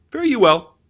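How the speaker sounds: mysterious. Retold or imitated. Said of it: "Popilius is real mysterious here".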